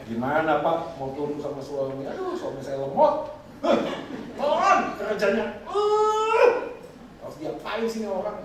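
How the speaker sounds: slow, whining complaint about a slow husband; exasperated wife. Retold or imitated. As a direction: groan about a sluggish husband. (istri mengeluh kesal)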